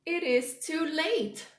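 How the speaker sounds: high, loud build to a big sneeze; dramatic sneeze. Acted. Gerald telling Piggy to stop before a huge sneeze. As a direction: hold back then burst out in a sneeze.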